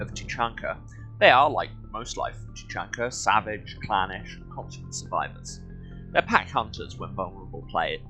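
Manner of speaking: measured documentary-style read-aloud. Acted. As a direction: read it out like an encyclopedia entry. Reads game codex aloud.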